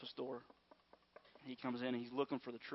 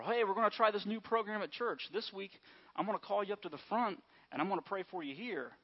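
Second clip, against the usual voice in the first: high, loud eager pastor voice; mock enthusiastic church invite; upbeat preacher announcement; 6 semitones higher, 5 dB louder than usual.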